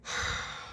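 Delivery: soft, breathy exhale; short deflated breath; weary sigh. Acted. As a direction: sigh before complaining. Acted weary sigh in story.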